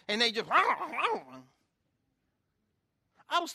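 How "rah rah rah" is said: growled "rah" swooping up high; wordless mock growl; mock snarling roar. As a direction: imitate a grouch snapping back. People snarling back when asked.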